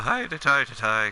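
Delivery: put-on Irish brogue. Showing the habit that nearly got them in trouble: fake irish accent. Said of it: "my fake Irish accent".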